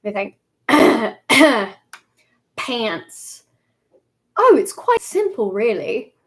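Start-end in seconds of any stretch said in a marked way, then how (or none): 2.6-6.1 Mumbo. Acted. Streamer auditioning for the part of Mumbo, playful character impression. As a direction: have a light go at a British character voice. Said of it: "here's my official audition for Mumbo".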